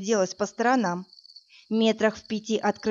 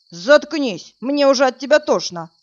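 loud narrated yell, a touch higher; 5 semitones higher, 7 dB louder than usual. A narrator's reading. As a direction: bark it out louder at her. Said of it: "заорал Жорик". (громкий крик)

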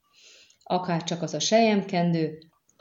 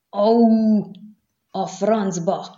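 loud, higher yelp of pain; yelling in pain; 4 semitones higher, 6 dB louder, much slower than usual. A narrator's reading. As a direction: cry out sharply as the needle hits. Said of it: "ordított fel az asztalon Mistle".

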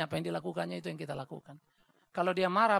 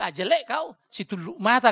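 loud blunt Batak jab; 5 semitones higher, 10 dB louder than usual. Retold or imitated. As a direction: snap it out like a frank Batak. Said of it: "kata orang Batak kan". (logat Batak yang blak-blakan dan keras)

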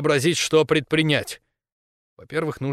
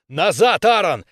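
loud, high urgent yell; shouted order; 5 semitones higher, 5 dB louder, slower than usual. A narrator's reading. Captain ordering Aaron out of the tunnel, shouting. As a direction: shout him back with full authority. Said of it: "опомнился и прокричал".

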